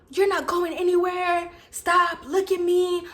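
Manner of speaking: retold demands, pushed up and punchy; lightly voiced insistent boyfriend.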